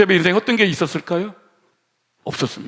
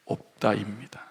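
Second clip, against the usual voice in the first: normal talking voice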